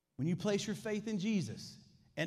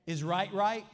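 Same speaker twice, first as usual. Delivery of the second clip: calls out the question to the room, louder; forceful rhetorical question; loud challenge; 2 semitones higher, 6 dB louder, slower than usual. Real, not acted. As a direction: demand an answer from the pews. Preacher challenging the congregation.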